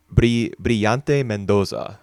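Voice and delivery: slow careful Spanish accent on Brillante Mendoza. Shown as a demonstration. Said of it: "I use my Spanish accent".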